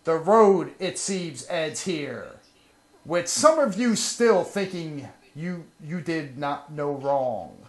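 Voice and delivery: lightly hammed-up dramatic speech. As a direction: deliver it like a wounded leader. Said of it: "Very dramatic, sir".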